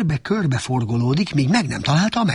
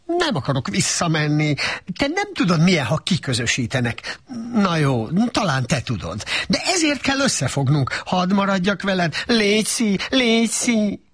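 higher, pleading donkey chatter; lightly voiced begging donkey; 7 semitones higher than usual. A narrator's reading. Donkey pleads with Shrek to stay, lightly voiced.

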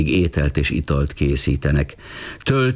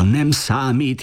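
higher, slow called-out line; 8 semitones higher, slower than usual. A narrator's reading. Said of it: "kiáltotta Filó".

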